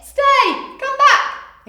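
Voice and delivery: high, loud dog commands; shouted commands. Acted. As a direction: call your dog back firmly. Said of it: "The dog's people all shouted".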